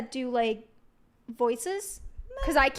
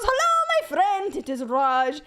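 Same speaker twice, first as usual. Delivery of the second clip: much higher, cheerful Raj greeting; 4 semitones higher than usual. Retold or imitated. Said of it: "And he goes".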